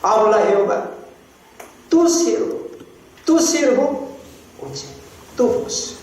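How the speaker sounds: high, pleading call to God; a hint of humble Samuel praying; earnest prayer. Shown as a demonstration. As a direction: pray like young Samuel listening. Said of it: "debemos leer la Biblia así".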